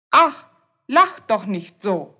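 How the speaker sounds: Ach with a loud, rasping ch; example for ch. Shown as a demonstration. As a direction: stress the throaty ch in Ach and lach. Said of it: "wird wie Ch ausgesprochen". (lautes, kehliges Ach als Beispiel)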